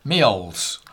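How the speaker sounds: posh-accented "Meols"; posh pronunciation. Shown as a demonstration. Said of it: "if you're posh".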